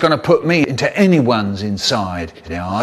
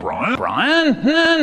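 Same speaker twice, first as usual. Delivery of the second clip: calling out; 9 semitones higher than usual. Acted. Calling, rising pitch.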